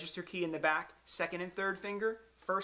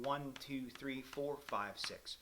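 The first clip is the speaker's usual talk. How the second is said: slow count; 4 semitones lower, 9 dB quieter, slower than usual. Shown as a demonstration. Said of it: "you're counting".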